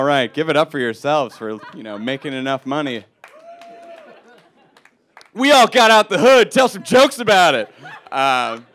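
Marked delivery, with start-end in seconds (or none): 5.3-7.7 mock pride. Mock brag to crowd.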